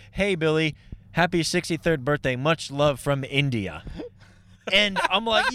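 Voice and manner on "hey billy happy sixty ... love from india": imitating Indian well-wisher. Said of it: "one of them literally said".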